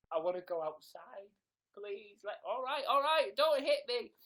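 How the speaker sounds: high, loud panicked begging; mock pleading. Captive streamer begging an unseen handler, loud mock fear. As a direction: plead as if about to be hit.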